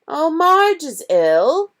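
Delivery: high, slow drawn-out remark; uncle's voice. A narrator's reading. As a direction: read the news out slowly. Vernon reading postcard.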